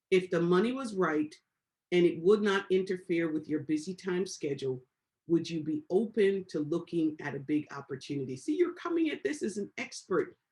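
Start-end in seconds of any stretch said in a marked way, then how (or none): 0.1-8.4 lower, measured, unhurried pitch to a prospect; calm script read. Shown as a demonstration. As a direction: deliver the line like a calm professional. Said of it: "Here's what you could say to them".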